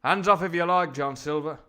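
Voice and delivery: loud, high indignant declamation; hammed-up film-hero protest; old-film English sailor. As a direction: play a fifties actor as an honest seaman. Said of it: "the voice I'm doing now".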